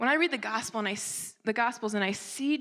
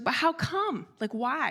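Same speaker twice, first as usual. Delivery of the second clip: higher, lightly voiced little-kid protest; questioning child; 5 semitones higher than usual. Daughter questions mother's refusal, puzzled child protest. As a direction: imitate a child asking why. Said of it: "she's like".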